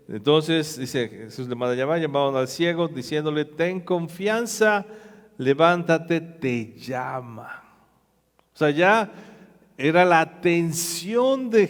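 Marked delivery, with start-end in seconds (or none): 3.4-7.6 gentle encouragement. Acted. Disciples calling the blind man.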